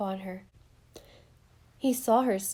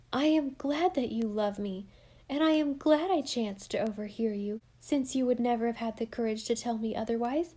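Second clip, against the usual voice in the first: joyful confession; 3 semitones higher, 3 dB louder than usual. Acted. Alice joyful confession, higher.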